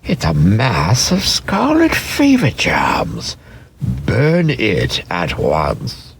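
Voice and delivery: slow, whispered doctor voice; doctor orders the toy burned, slow whisper; doctor's hushed order. A narrator's reading. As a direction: hiss it out like a grave doctor warning of germs. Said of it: "said the doctor".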